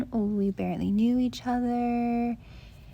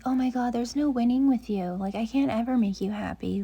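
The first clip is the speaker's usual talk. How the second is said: mock exasperation; 2 semitones higher, 3 dB louder, faster than usual. Quoting an exasperated partner.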